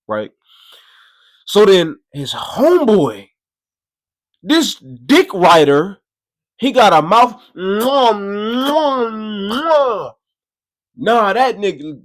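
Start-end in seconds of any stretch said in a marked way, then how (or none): 1.5-7.4 louder, higher, slow disgusted build; winding up to roast the homeboy; rising outrage. Real, not acted. Telling the crowd about the friend, rising outrage. Building up the dick rider story. 7.6-10.1 smack the lips in mockery; mock kissing sounds. Mimicking sucking sounds.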